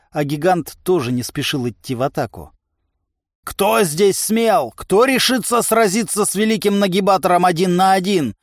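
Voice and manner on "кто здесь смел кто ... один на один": high, raised bragging bellow; giant's boastful roar; roaring challenge. A narrator's reading. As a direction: throw down the gauntlet to a crowd. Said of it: "ревел здоровяк".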